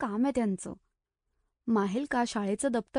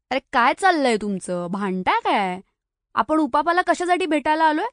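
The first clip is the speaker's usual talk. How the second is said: louder, bossy motherly telling-off; scolding like her mother; 4 semitones higher, 4 dB louder than usual. Acted. Sai scolds her quarrelling friends just like her mother. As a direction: scold them like a mum settling a squabble. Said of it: "आईच्या थाटात ओरडली".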